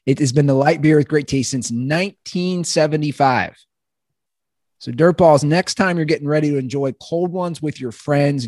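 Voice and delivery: casual podcast sponsor read. Acted. Host reading a beer sponsor's copy, casual ad read. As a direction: read the copy smoothly, lightly selling it.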